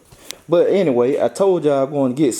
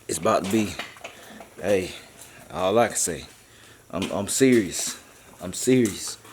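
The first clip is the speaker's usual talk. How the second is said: hushed secretive; 6 semitones lower, 6 dB quieter than usual. Real, not acted. Teasing secret plans for Dolo.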